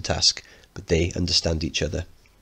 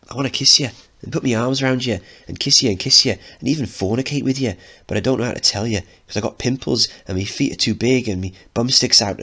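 put-on fast, tumbling teenage rush; gushing confession; 4 semitones higher, 3 dB louder than usual. Mickey pours his heart out, fast and breathless. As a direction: blurt it all out at once.

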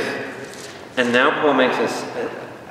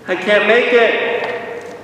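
high, drawn-out mock wail; mock crying out; 6 semitones higher, much slower than usual. Preacher acting his failure under the law, mock crying. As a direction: wail it slowly, pitched up, in pretend despair. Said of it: "I start crying".

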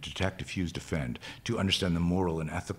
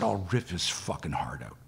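quicker, understated repeat of a threat; retold repeat; 4 dB quieter than usual. Woman repeating her threat when asked, understated. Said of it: "She said".

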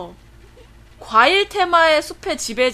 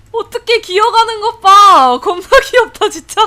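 cute squeal; 8 semitones higher, 10 dB louder than usual. Real, not acted. Cooing over cute pet.

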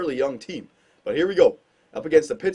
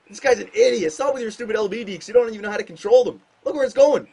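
annoyed scolding; 5 semitones higher than usual. Real, not acted. Scolding his player on screen.

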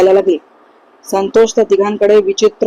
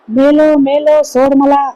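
high, drawn-out cry of panic; terrified cry; 6 semitones higher, much slower than usual. Acted. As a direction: cry out slowly for release, pitched well up. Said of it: "विभासची किंकाळी ऐकू आली". (घाबरलेली, लांबवलेली किंकाळी)

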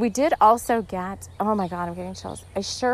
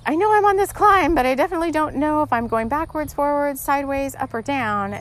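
high, loud and rushed, lost and flustered; panicked confusion; 5 semitones higher, 4 dB louder than usual. Pretend. A climber unsure of direction, asking guides, high and flustered. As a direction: blurt it out fast like you've lost your way.

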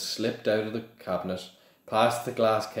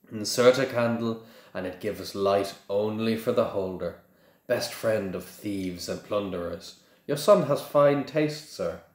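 lightly oily salesman pitch; a hint of a greasy merchant; oily shopkeeper. Shopkeeper flattering father about his son, lightly oily. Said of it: "his oily voice".

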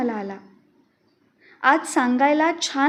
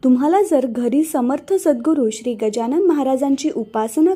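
louder, upbeat announcer read; podcast outro announcer; 2 semitones lower, 3 dB louder than usual. Acted. Host addresses listeners at the end of the episode, louder announcer read. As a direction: announce the credits and ask listeners to subscribe.

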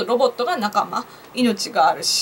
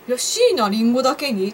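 laughing joke. Retold or imitated. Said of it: "とか、なんか思ったんですけど".

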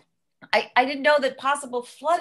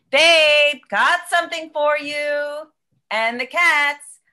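playful greeting; 5 dB louder, slower than usual. Acted. Playful arrival at girlfriend's door.

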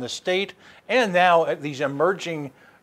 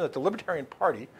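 infomercial voice; 3 semitones lower than usual. Acted. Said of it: "do I sound like an infomercial".

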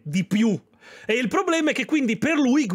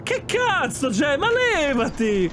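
angry yelling; 5 semitones higher, slower than usual. Acted. Yelling at reckless driver.

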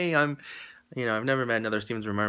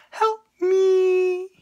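high, loud, fake-crying plea; hammed-up sobbing cry; mock wail; 8 dB louder than usual. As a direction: pretend to beg for rescue. Joking plea, then "just kidding.

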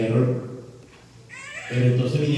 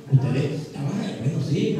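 ordinary talk

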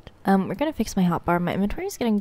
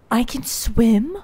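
gasping disbelief; slower than usual. Real, not acted. Discovers swimming.

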